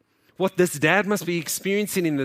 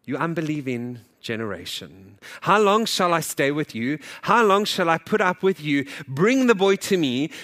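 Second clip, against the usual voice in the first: rebuking. Acted. Jesus rebuking, scripture read.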